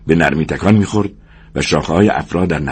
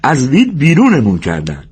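triumphant cry; 7 semitones higher than usual. A narrator's reading. Lennie proudly tells George he remembers, triumphant cry. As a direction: cry out proudly, it came back. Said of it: "لنی پیروزمندانه فریاد زد".

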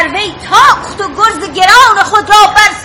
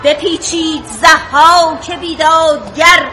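slow, measured verse recital; poem recital; slower than usual. Acted. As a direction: recite the epic line slowly.

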